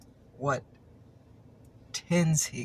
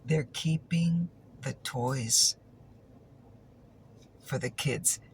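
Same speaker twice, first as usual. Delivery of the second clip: put-on drawn out at half speed, pausing before "for the kids"; slow, incredulous quote; slower than usual. Collector repeats a creator's dubious claim, slow and pointed. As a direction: repeat it slowly, weighing "keeping" and "the toys".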